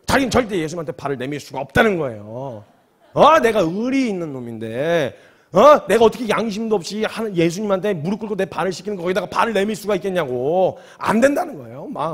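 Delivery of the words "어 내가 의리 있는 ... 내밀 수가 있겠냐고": indignant refusal. Retold or imitated. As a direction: protest like a stubborn loyal friend. Peter refuses the foot washing.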